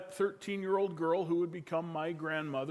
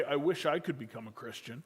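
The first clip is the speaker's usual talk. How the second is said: resigned, a touch lower, giving up; defeatist; 4 semitones lower than usual. Retold or imitated. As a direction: say it like he has already lost. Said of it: "in a defeatist way".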